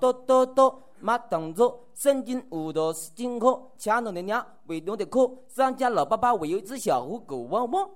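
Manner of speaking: Shanghai porridge seller's cry. Retold or imitated. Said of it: "这后边整个说到一块儿是？".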